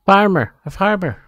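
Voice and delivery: excited. Real, not acted. Excited about book.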